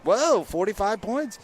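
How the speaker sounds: mock amazement. Host mimicking someone reading the stat sheet, mock amazement. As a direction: imitate an impressed fan, stretching the words.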